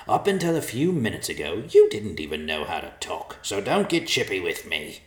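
scolding bird voice; cranky old vulture. Acted. Vulture character speaking.

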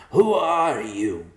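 loud, high challenge with stretched words; alarmed yell. A narrator's reading. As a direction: demand it at a shout. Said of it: "he yelled".

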